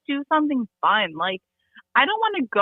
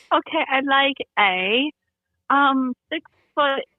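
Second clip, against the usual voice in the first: put-on slow, hesitant British accent; 2 semitones higher, slower than usual. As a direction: retell ordering awkwardly in a put-on British accent. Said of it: "in a British accent".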